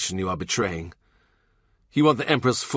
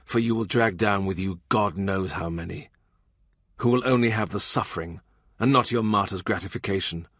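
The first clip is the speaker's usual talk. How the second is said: a raised, cutting rebuke; Cromwell, furious. Acted. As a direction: tear into him with rising anger.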